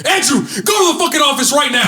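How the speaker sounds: high, loud order; a teacher ordering a bully to the office; stern teacher shout. Retold or imitated. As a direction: send him out at once. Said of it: "the teacher goes".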